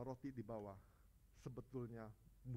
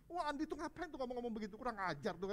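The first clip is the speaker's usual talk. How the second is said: mock offended; 9 semitones higher, 5 dB louder than usual. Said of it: "marah pasti".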